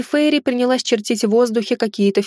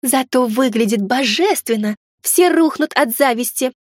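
fairy spirit voice; 3 semitones higher than usual. Acted. Fairy spirit boasting about dress.

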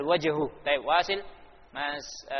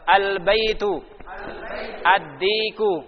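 loud, higher choral reading; reading together; 4 semitones higher, 5 dB louder, slower than usual. Shown as a demonstration. Teacher leads class reading together, loud and higher. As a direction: call out each word with the class. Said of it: "kita baca bersama-sama".

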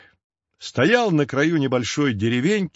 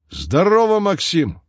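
higher, louder booming hello; hearty loud greeting; 8 semitones higher, 4 dB louder than usual. A narrator's reading. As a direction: call out like a big farmer. Master greets the cat loudly. (громко и бодро)

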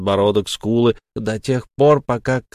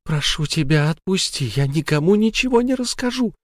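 much higher, rising desperate plea; frantic pleading; 8 semitones higher than usual. Acted. Sara begs the ghost, promising silence. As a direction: promise anything to live.

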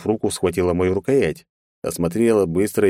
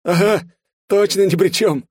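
laughing; 13 semitones higher, 5 dB louder than usual. A narrator's reading. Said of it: "смеясь, высказался Лёха".

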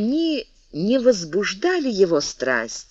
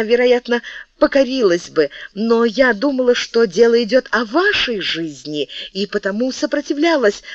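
pleading; 4 semitones higher than usual. Acted. Мария умоляет короля.

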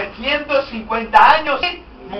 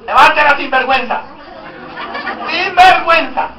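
mock scolding; 3 semitones higher than usual. Preacher mock-scolding the congregation.

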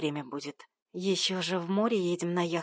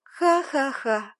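slow, high, loud mocking laugh; a hammed-up scornful cackle; loud, drawn-out fake laughter; 6 semitones higher, 5 dB louder, much slower than usual. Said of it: "прокричала я".

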